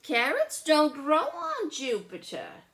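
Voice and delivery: loud, high mock-serious claim; big brother. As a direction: state it with a straight face. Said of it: "said Charlie".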